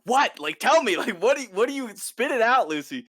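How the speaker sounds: high, loud, pressing; demanding. Retold or imitated. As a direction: push her to spit it out. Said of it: "Max is like".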